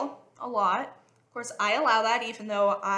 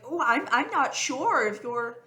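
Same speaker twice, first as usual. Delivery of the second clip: gentle teasing; 3 semitones higher, slower than usual. Retold or imitated. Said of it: "poke 'em really gently and be like".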